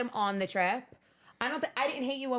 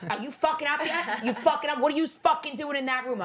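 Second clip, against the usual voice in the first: retold annoyed demand, voice pitched up; 4 semitones higher than usual. Texting a boyfriend who is still not up, annoyed. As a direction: pester someone still in bed, mildly fed up. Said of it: "I was so annoyed".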